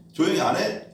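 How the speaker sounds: 높여서 날카롭게 몰아붙이듯; 쏘아붙이는 흉내. Retold or imitated. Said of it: "막 이러면서". (한나에게 싸움 거는 상상 속 말투, 높게 쏘아붙임)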